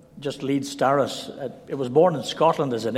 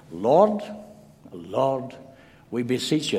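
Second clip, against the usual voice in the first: lyrical prayer; much slower than usual. Retold or imitated. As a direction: gently mimic a godly old man praying. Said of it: "a very lyrical way".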